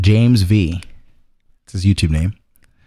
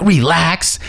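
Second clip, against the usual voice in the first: higher, indignant echo of a retort; mock offended echo; 7 semitones higher than usual. Retelling the truck lady's reaction, mock offended echo. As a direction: imitate someone taken aback. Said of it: "she looks like".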